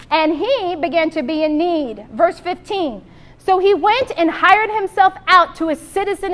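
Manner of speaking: measured, earnest Bible reading; a preacher's steady reading voice; scripture reading. Acted. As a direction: read the parable to the congregation. Reads scripture aloud in sermon.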